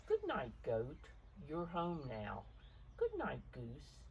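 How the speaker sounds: gentle read-aloud picture book voice; story narration. A narrator's reading. Parent reading the storm page aloud to a child, gently. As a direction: read it softly to a child at bedtime.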